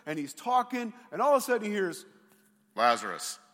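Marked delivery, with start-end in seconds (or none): 2.8-3.4 distant call. Acted. Jesus calling from beyond.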